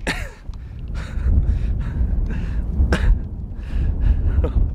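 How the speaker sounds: breathless delighted laugh; high giddy laugh. Real, not acted. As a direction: laugh out in pure joy. Landing a heavy fish.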